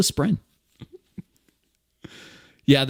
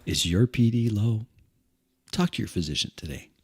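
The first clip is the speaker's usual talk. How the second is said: cheerful ad with eerie menace. Retold or imitated. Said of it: "pharmaceutical commercial".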